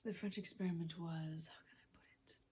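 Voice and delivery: softly voiced mad scientist, measured delivery; quiet, half-whispered dramatic monologue; chemist character monologue. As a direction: deliver the verdict in a hushed voice.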